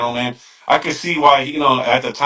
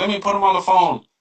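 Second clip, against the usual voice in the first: put-on heavy Vietnamese accent, laid on thick, pitched up; 7 semitones higher than usual. Retelling what a woman said on the phone, in a heavy Vietnamese accent. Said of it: "she's you know hardcore Vietnamese accent".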